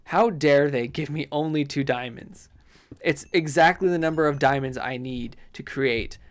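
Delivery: mildly indignant complaint; a touch of mock outrage; affronted by a stingy reward; riled up. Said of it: "got me a little riled up".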